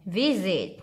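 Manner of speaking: "Visit" with a buzzing z in the middle. Shown as a demonstration. Teacher models "Visit" for students, s as z. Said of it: "chữ sờ này đọc là giờ".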